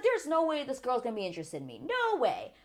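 high, incredulous retelling of Dom; mock his disbelief in himself; imitating Dom. Vlogger imitating Dom writing Francesca off, high disbelief. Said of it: "He was like".

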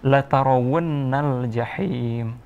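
slow, measured tartil recitation; Quran recitation. Shown as a demonstration. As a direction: recite slowly for a child to repeat. Teacher recites for pupil.

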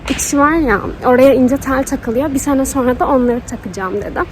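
lisping with new retainers; wearing a retainer. Real, not acted. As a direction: talk through fresh retainer plates. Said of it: "peltek konuşuyorum ve konuşmam çok zor".

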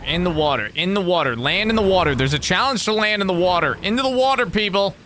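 a hint of a silly penguin; squawky bouncy penguin. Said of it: "I can talk like a penguin".

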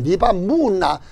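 mock Gyeongsang dialect English; Gyeongsang-style English. Pastor jokes about a Gyeongsang immigrant boy's English, mock Gyeongsang accent. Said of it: "이게 경상도식 영어입니다".

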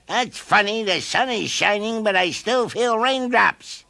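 high, curious voice; puzzled caterpillar. A narrator's reading. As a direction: wonder aloud.

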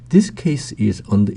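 very slow, every word laid out; slow, careful example sentence; slow model reading. Shown as a demonstration. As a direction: read it slowly for learners to copy. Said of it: "model sentence read slowly".

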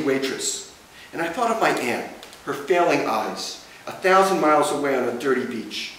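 measured literary recital, phrase by phrase; poetry reading. Acted. Poet reading a beach poem to an audience, measured recital. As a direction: read a poem aloud, pausing at each line break.

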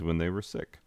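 hushed unvoiced whisper; whispered aside. Real, not acted. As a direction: let it drop to a whisper. Aside about docked pay.

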